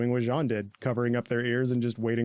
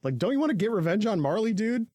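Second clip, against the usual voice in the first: pushy questioning; 6 semitones higher, faster than usual. Retold or imitated. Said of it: "Connie asks".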